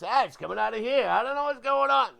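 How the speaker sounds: put-on high, loud panicked kid reliving an injury; retold panic. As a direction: cry out in mock alarm. Retelling his childhood panic at injury.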